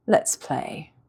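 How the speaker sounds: taunting. Acted. Villainess taunting girl.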